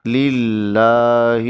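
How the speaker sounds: للہ drawn out slowly with a thin lam; correct Lillah. Shown as a demonstration. Teacher modelling the right reading, slow. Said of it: "لام زیر لام لل".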